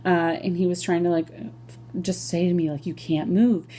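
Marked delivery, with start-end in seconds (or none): 2.9-3.7 softer and softer soothing; calming. Retold or imitated. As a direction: gently settle a scared patient. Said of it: "the nurse is trying to calm me down".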